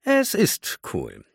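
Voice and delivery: high, slow, bashful agreement; shy agreement. Acted. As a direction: say it with a shy smile. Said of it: "Rowan lächelte schüchtern". (schüchtern lächelnd, hoch und gedehnt)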